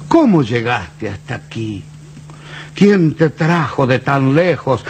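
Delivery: slow, heartfelt poem recitation; poem recital. Acted. Reciting his poem to the found mate, slow and tender. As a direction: recite it slowly to the old gourd.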